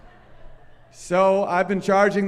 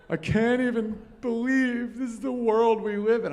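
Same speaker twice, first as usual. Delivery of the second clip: whiny mock despair; 6 semitones higher than usual. Mocking social media whining.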